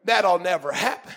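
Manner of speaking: low, dismissive disbelief; Sarah. Acted. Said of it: "Sarah laughed like".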